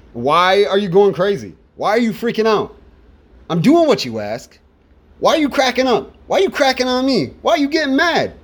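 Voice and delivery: rising, exasperated questions to a nagging partner; mock nagged partner. Singer asks his nagging partner, rising exasperation. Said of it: "It's about the partner nagging".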